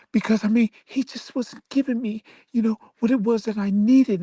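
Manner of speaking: mock her self-pitying explanation; mock wife complaint. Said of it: "she starts talking about".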